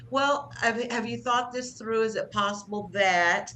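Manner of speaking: calm respectful suggestion; nice assertive way. Shown as a demonstration. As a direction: invite them to reconsider. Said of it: "you say it in a nice way".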